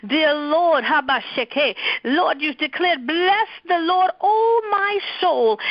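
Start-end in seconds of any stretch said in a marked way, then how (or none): 3.1-5.6 crying out. Real, not acted. Pastor pleading for healing, voice breaking. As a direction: voice breaking, higher and slowed, close to tears.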